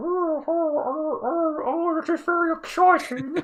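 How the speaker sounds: tiny squeaky cartoon voice, very high, very slow. Recounting a strange voice from the start of a video, the speaker mimics it: Piglet-like voice. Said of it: "it sounded like Piglet from Winnie the Pooh".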